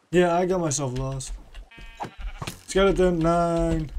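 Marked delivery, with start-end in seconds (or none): 2.7-3.9 lightly put-on German accent. Lost player refusing a skeleton, mock German accent. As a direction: say it with a playful touch of German. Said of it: "I don't know why I went German there".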